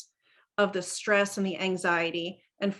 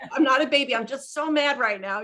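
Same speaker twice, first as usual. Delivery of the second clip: laughing disclaimer; 4 semitones higher, 4 dB louder than usual. Retold or imitated. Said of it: "give that precursor".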